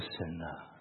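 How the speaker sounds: a quiet retold plea to God; hushed prayer. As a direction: pray it alone in an empty church. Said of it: "我说".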